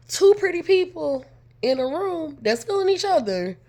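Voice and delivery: high, loud sarcastic jab; mock exasperated. Mocking her best friend and the guy, exasperated. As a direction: roll your eyes at the two of them. Annoyed retelling of flirting pair.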